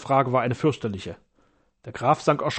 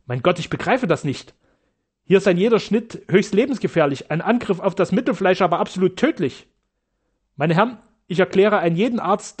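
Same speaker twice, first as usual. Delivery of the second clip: raised, urgent accusation; agitated; 4 semitones higher, 3 dB louder than usual. Acted. Sternau agitated, calls the surgeons murderers, raised voice. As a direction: accuse them with rising heat. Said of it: "meinte Sternau ganz erregt".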